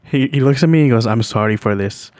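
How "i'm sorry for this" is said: lightly imitated Indian accent; a low-key Indian-accented apology. Man apologizing to a stranger in the elevator, mild Indian accent. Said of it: "he says it in an Indian accent".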